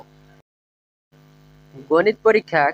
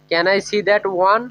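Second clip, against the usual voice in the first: slow careful English; slower than usual. Shown as a demonstration. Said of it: "এভাবে বলতে পারি।".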